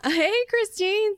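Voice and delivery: slow, loud, high laughing hello; excited greeting. Real, not acted. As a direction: greet her with a big laugh. Cheery greeting on pretend call.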